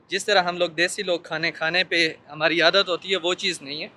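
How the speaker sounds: speaking behind surgical mask; mask-muffled outdoor speech; through a face mask. Real, not acted. Seen 3: Mask over mouth and nose in every frame while speaking.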